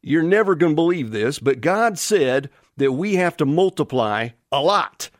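lightly put-on Southern drawl; a hint of folksy Southern husband talking to his honey. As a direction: play Adam with a mild Southern twang. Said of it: "you can almost add a southern drawl".

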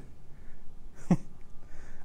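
soft, wordless chuckle; short laugh. Real, not acted. Preacher amused at himself mid-sermon, soft chuckle. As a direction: let out a quiet laugh.

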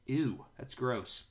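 slow, drawn-out "ew"; slow disgusted aside. Real, not acted. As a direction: react with mild real disgust. Reader reacts to a grim verse.

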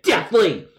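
hammed-up cry of outrage; mock shout. Caller stressing his allergy to the agent, mock shout. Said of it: "why do people need to shout".

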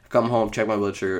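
ordinary delivery

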